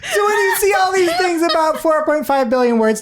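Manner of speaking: high-pitched, helpless real laughing speech; talking through laughter. Real, not acted. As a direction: squeeze the words out while cracking up. Helpless laughter after absurd pickup line.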